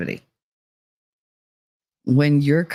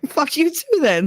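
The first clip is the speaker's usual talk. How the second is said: mock sweet insult; 11 semitones higher than usual. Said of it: "I'm like".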